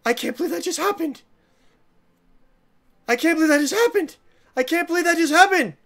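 fast, high-pitched disbelief; stunned disbelief. Real, not acted. Gamer reacts to falling off the edge, rapid stunned disbelief. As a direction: rattle it off again and again, can't process it.

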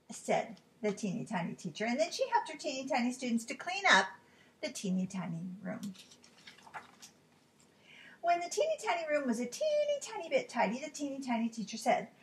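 lilting read-aloud for little ones; animated storybook narrator; story narration. A narrator's reading. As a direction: read it like a picture book, stretching key words.

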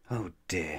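soft, sighing oh dear; sad sigh. Acted. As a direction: let it out like a weary sigh. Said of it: "he thought".

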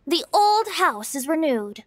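slightly slowed, measured poem recital; mock-formal poetry reading; reciting a verse. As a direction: read it out like a stiff old poem. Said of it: "There's one I heard a while back that went".

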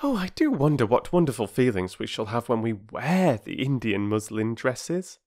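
lightly voiced dreamy girl; wondering girl. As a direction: wonder aloud as a hopeful child. Voices Bobby in the story.

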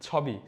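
"ছবি" with open aw after ছ; "ছবি" read literally, open vowel, falling pitch; literal spelling pronunciation. Shown as a demonstration. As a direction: say "ছবি" as chhaw-bi. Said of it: "তাহলে কি হবে?".

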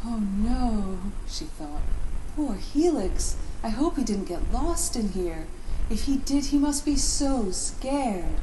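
worried. Acted. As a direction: fret for a lost friend. Ellie worried in dark pipe.

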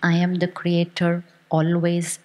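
"always" set apart after a pause; pause, then a firm, deliberate "always"; stress on always. Shown as a demonstration. Teacher giving the audience a line to say, stress on "always". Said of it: "and underline the always".

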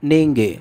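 নিঙ্গে said carefully as "ning-ge" with a clear ng; teacher spells out নিঙ্গে syllable by syllable; Tamil word modelled. Shown as a demonstration. Teacher showing Bengali viewers a Tamil word, slow careful pronunciation. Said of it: "এর তামিল উচ্চারণ হবে".

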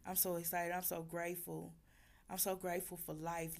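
losing her voice; hoarse voice. Real, not acted. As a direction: voice worn out from screaming. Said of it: "I'm losing my voice".

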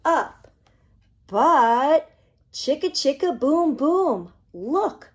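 put-on lively storybook read-aloud for little kids; reading to children. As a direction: bounce the rhymes along like a picture-book reading. Reads picture book to children.

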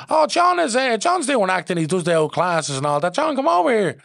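high, loud, eager calling across the gym; trainer calling out. Retold or imitated. Boxing trainer calling John over to the casting director. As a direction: shout him over, proud of him.

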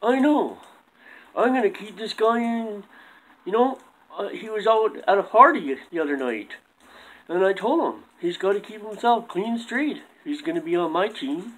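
soft lightly voiced puppet coach; quiet puppet coach.

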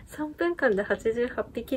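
amused retelling of 三分間で八十八匹, falling; chuckling at 三分間で八十八匹; laughing repeat. Real, not acted. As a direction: laugh through 三分間で八十八匹 in disbelief. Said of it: "いや、めっちゃ強いと思って".

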